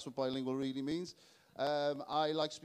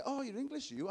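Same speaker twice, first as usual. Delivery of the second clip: much higher mocking question; mock patronising; 8 semitones higher than usual. Welshman mocking the Londoner's question, high and sing-song. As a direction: turn the question back mockingly. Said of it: "It's like".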